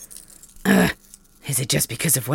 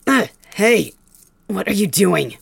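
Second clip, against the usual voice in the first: startled protest; 4 semitones higher, 3 dB louder than usual. Acted. Face grabbed.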